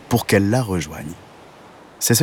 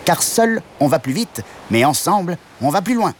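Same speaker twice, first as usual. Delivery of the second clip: much higher frog voice, proverb-like; 8 semitones higher than usual. Acted. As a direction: frog sharing wisdom with friends. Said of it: "dit la grenouille". (grenouille sentencieuse, voix très aiguë)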